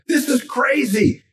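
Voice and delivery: high, slow, drawn-out disbelief; stunned, high and slow; amazed. Retold or imitated. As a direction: stretch it out like you can't believe it. Host amazed at Elton's sports knowledge.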